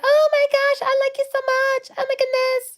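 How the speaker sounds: very high, squeaky gushing imitation; mock gushing fan. White people after spending time with you, mock gushing.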